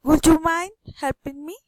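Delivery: polite request climbing up on HELPING ME; rising request intonation. Shown as a demonstration. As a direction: lift the voice to the end, on ME. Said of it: "rising intonation".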